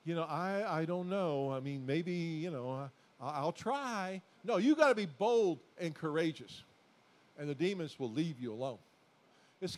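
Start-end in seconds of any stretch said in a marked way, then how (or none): 0.0-4.2 slow, hesitant mock-timid mumble; imitating a timid doubter, slow and unsure; timid hesitation. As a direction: play the unsure believer, halting. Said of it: "if you're timid and going".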